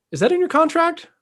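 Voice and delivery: high, loud mock drill sergeant; drill sergeant bark. Drill sergeant barking at a recruit in boot camp. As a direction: snap the question like a drill sergeant. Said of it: "the drill sergeant goes".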